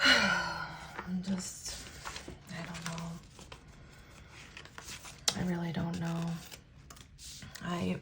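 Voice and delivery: very soft, halting, lost for words; subdued murmur of despair; quiet and upset. Real, not acted. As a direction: barely get it out, drained. Upset vlogger trailing off quietly.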